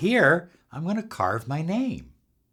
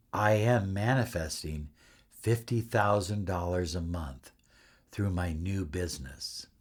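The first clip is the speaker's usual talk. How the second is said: calm and certain; 6 semitones lower, 7 dB quieter than usual. Shown as a demonstration. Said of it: "in a way that was calm and relaxed and certain".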